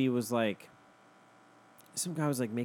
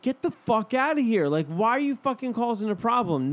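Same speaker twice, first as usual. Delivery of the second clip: higher, louder retold outburst; mock angry man; 9 semitones higher, 5 dB louder than usual. The driver yelling at the lady, mock angry. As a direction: bark at her, hammed up. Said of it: "he was like".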